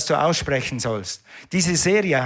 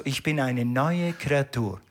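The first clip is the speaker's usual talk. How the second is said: calm confident answer. Pretend. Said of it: "dann sagst du".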